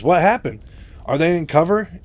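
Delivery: high, loud startled questions; very surprised. Retold or imitated. Raynor asks Mike why he stopped, very surprised. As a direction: ask urgently in acted surprise. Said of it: "very surprised, says".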